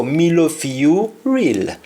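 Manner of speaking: "Me love fi you real" in a Jamaican Patois lilt; a Patois line of devotion. Shown as a demonstration. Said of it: "we say".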